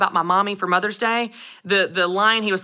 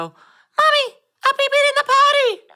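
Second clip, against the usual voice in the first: put-on little child's very high, drawn-out voice; 4 dB louder than usual. Mother retelling her son interrupting her live Facebook answer, imitating Conley's little voice. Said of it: "this little voice in the background go".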